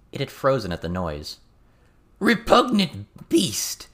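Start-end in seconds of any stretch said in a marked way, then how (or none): 2.2-3.9 high, slow, loud goblin shout at the rat. A narrator's reading. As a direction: bellow it out with disgust. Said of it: "Toad Swallow shouted".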